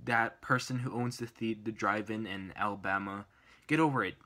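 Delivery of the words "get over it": louder, punchy get over it; firm, louder brush-off; emphatic retort. Real, not acted. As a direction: slap the line down at him. Addressing the Alabama drive-in owner.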